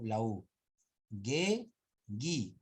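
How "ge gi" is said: "Ge, gi" with hard G, U unheard; silent U. Shown as a demonstration. Teacher demonstrating the mute U to class. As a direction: sound out ge and gi without a W glide. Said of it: "Acá no suena la U".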